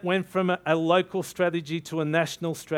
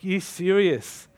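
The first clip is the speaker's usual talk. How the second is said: slow, disbelieving "You serious?"; stunned question back to God; incredulous; 3 semitones higher, slower than usual. Retold or imitated. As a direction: ask it like you can't believe the order.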